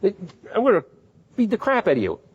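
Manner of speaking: mock-explode at the disobedient kid; parent yelling. Parent threatening the kid, hammed-up furious yell. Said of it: "You yell".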